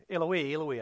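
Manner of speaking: Eloi said as ee-luh-WEE; corrected pronunciation. Shown as a demonstration. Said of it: "I think that's the way you say".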